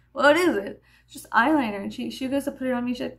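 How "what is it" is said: loud, higher retold question; nervy question, pitched up; skittish. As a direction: mimic your jumpy younger self. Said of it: "I was very skittish".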